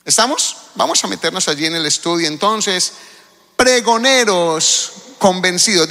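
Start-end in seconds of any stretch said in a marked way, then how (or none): 3.6-5.9 slow, emphatic. Shown as a demonstration. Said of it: "Dígalo conmigo en voz alta".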